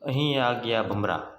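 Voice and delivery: slow, measured reading of verse; poem recitation. Acted. Teacher reciting a poem to young pupils, slow poem recitation. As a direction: recite it unhurriedly, drawing out the line ends.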